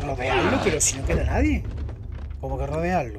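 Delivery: loud, high mocking incredulity; loud disbelief. Real, not acted. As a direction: shout back in scornful disbelief. Mocking enemy's command, incredulous. (incredulidad burlona a gritos)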